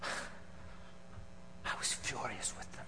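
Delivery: slow, soft, almost voiceless; hushed fury. Acted. Pharisee confessing his fury to Pontius, hushed and slow. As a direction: let the rage simmer under the breath.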